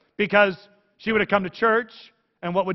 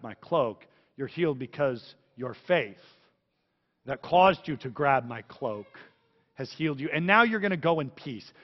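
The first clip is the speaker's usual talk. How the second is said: reassuring Jesus; 3 semitones lower than usual. Acted.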